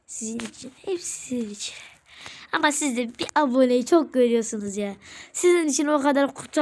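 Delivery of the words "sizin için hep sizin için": soft and tired, much quieter; quiet, sick voice. Real, not acted. Sick youtuber telling viewers he films anyway, weak and soft. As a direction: sigh it out, worn down by illness. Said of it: "Birazcık hastayım".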